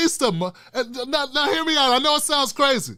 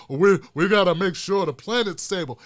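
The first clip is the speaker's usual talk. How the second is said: mock lame liberal; 4 semitones lower than usual. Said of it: "What kind of lame?".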